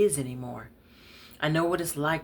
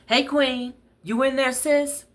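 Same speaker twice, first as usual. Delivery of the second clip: calling through the door, high and loud; 11 semitones higher, 7 dB louder than usual. Acted. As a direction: call out cheerfully, pitched way up.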